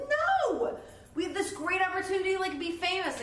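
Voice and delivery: high, loud, rushed pleading; frantic Glinda. Retold or imitated. Glinda begs Elphaba to stay famous, high and rushed. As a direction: grab her before she leaves. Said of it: "Glinda's like".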